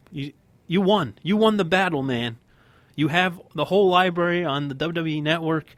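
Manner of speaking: worked up, leaning on key words; an impassioned fan's plea; emotional rant. Real, not acted. Podcast host pleads for Sting to get a win, emotional. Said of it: "I'm getting very emotional".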